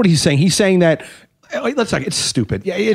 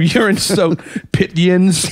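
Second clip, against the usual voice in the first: slow, drawn-out Pittsburgh yins; mock Pittsburgh insult, stretched out; lightly done Pittsburgh accent; much slower than usual. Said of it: "it's a Pittsburgh thing".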